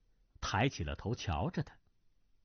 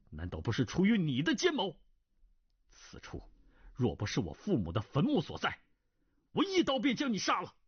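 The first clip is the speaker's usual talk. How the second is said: angry rebuke; 5 semitones higher than usual. Acted. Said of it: "胡斐大怒，厉声道".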